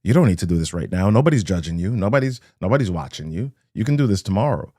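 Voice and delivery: mildly acted inner voice, quick excuses; quick rationalizing. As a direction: rattle off excuses as if talking yourself out of it. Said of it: "rationalizations arrive quickly".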